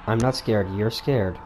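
false bravado. Real, not acted.

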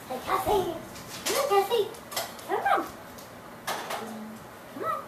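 coaxing a dog. Real, not acted.

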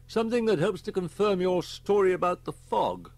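grave inspector. Acted. Inspector briefs Holman on the school deaths, grave. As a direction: report the grim facts firmly.

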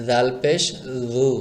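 জাল and জু with a soft voiced th. Shown as a demonstration. Teacher shows learners a soft, gentle জু. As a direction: soften the first sound of জু. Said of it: "soft করে".

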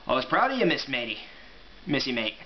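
light pseudo-Scottish-Irish otter voice; proud otter in a loose Scottish-Irish accent. Acted. Otter praises Dottie, light pseudo-Scottish-Irish accent. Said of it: "giving him a pseudo-Scottish-Irish accent".

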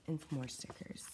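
whispered softly. Real, not acted. Vlogger whispers over the stickers, hushed. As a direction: hush it like a secret.

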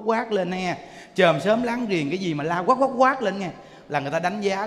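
normal talking voice

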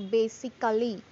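"basically" in four syllables, BA-si-ca-lly; every syllable pronounced. Shown as a demonstration. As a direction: sound the middle A in "basically". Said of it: "We won't pronounce all the syllables like".

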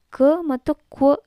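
"ಕ ಮತ್ತು ಕ್ವ" with plain kuh set against rounded kwuh; "ಕ ಮತ್ತು ಕ್ವ", both Q sounds said firmly for learners; letter-sound demo. Shown as a demonstration. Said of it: "ಈ pronounce ಮಾಡ್ತೀವಿ".

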